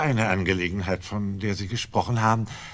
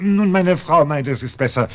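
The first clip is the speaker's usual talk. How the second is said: nervous loud cover; 9 semitones higher, 9 dB louder than usual. Acted.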